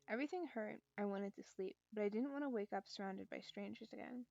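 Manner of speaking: calm storytelling read; story narration. Acted. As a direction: read the novel aloud evenly. Reads visual novel aloud.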